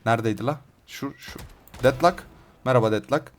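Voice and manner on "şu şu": hushed whisper, barely voiced; whispered pointing. Real, not acted. Gamer whispering to viewers where the enemy is, hushed. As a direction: breathe it so the enemy won't hear.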